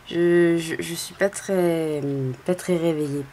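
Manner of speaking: voix grave et traînante du réveil; voix du matin. Real, not acted. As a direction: parler encore mal réveillée, lentement. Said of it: "j'ai bien ma voix du matin". (voix ensommeillée du matin)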